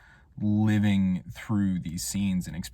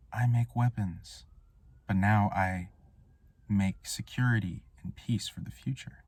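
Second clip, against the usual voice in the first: lightly voiced solemn child, halting; little boy in mask; 5 dB quieter than usual. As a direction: declare it gravely with long pauses. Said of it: "This boy says".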